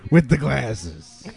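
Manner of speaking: drawn-out mocking taunt; slow taunting heckle. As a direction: jeer slowly at the kid.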